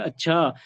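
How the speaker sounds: "अच्छा" drawn out a little; slightly prolonged "अच्छा"; lengthened अच्छा. Shown as a demonstration. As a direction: stretch the vowels of "अच्छा" with interest. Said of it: "थोड़ा और बढ़ा के लिखोगे".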